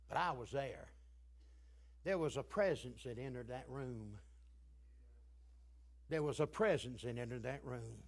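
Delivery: low, soft reverent storytelling; subdued testimony. Real, not acted. Preacher recalling an old saint's passing, subdued testimony.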